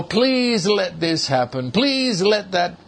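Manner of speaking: imitated wishful begging, leaning on please; mildly acted helpless plea; hopeless pleading. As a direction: mimic a doubtful believer's repeated plea. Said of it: "has within it a sort of hopelessness".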